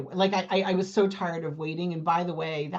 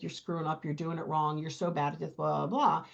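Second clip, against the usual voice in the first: soft, lower muttered inner critic; a hint of a nagging voice in her head; 4 semitones lower, 6 dB quieter than usual. She voices her own self-critical thoughts, soft and low. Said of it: "immediate voice in my head that's like".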